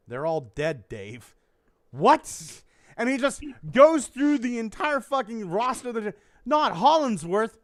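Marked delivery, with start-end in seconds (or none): 0.1-1.4 low, matter-of-fact Holly reply; lightly voiced computer breaking bad news; deadpan ship's computer. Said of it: "who's the ship's computer". 1.9-2.6 loud, startled one-word question; mock disbelief. Acted shock at crew's death. 6.5-7.6 louder, slow, higher query; hammed-up refusal to believe it; mock disbelief. Acted disbelief at crew deaths.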